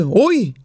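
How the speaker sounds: mock sighing "oy"; sighed "uy". First Jewish grandmother on a bench laments, sighed "oy". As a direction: let out a worried grandmother's sigh as a word. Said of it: "suspiró y dice".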